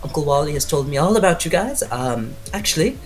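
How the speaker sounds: high-pitched put-on Austrian accent; Gretchen. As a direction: greet the family in a halting Austrian accent. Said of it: "she has a very thick Austrian accent".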